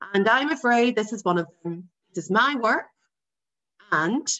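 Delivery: firm father voice. Acted. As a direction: explain duty like a stern father. Father explaining his duty.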